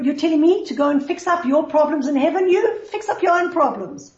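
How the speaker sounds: angry retort. Retold or imitated. Son lashing out at his dead father in a dream, angry. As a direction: pitch up and push back, fed up. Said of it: "he got really angry at his father".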